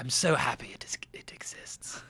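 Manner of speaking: put-on, dramatic, theatrical reading voice. Doing an impression in a dramatic reading, dramatic Marty impression. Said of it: "This is my impression of Marty".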